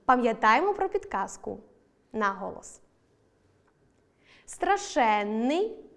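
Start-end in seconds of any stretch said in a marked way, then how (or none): 4.5-5.8 страшенний with stress on ШЕН, long double н; very slow страшЕННий, stretched suffix. Shown as a demonstration. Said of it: "наголос на суфіксі". (наголос на суфіксі: страшЕнний)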